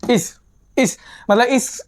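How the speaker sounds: इस with the s drawn out; stretched ending. Shown as a demonstration. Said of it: "थोड़ा सा सह को खींचते हुए पढ़ना है". (इस में स को खींचकर बोलना)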